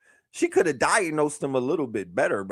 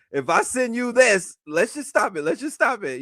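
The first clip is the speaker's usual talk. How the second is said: sassy; 5 semitones higher than usual. Pretend. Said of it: "go super sassy on you".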